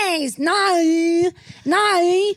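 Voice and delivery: Australian accent, exaggerated. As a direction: play the complaining Aussie mum, hammed-up. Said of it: "I'm doing the dialect".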